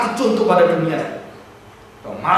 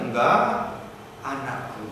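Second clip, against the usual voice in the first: tender father; slower than usual. Retold or imitated. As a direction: soothe the hurt son. Father gently answers older son.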